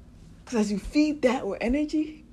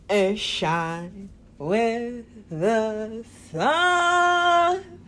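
drawn-out farewell; much slower than usual. Acted.

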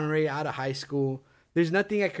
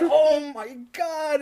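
high, drawn-out mock dismay; retold shock; 9 semitones higher, 3 dB louder, much slower than usual. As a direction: act out a horrified groan. Acts out his panicked reaction.

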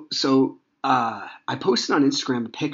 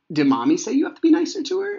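put-on very high, quick question to a child; probing dad; 5 dB louder, faster than usual. Dad asks son what Mommy said, high-pitched probing. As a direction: quiz the child in a high, louder voice.

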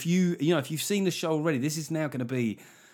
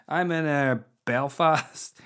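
tentative go at a Belfast accent; Northern Irish accent; 2 semitones higher, 3 dB louder, slower than usual. Shown as a demonstration. Comic retrying a tour announcement, hesitant Belfast accent. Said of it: "do the Northern Irish accent".

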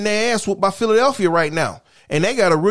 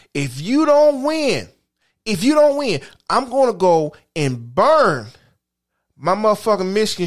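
emphatic rant. Real, not acted. Ranting at coach.

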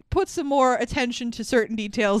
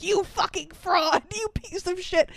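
mock angry; 8 semitones higher than usual. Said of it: "pull a Bagheera and be like".

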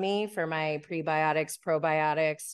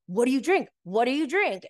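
imitated pestering; 5 semitones higher, 3 dB louder than usual. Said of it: "he kept saying".

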